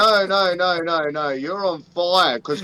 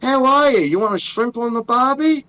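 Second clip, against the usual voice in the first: exaggerated, slightly higher Aussie greeting; Australian accent; 4 semitones higher than usual. Australian man greeting airport customs in a hammed-up Australian accent. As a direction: lay the Australian accent on thick. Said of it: "I've got Australian passport".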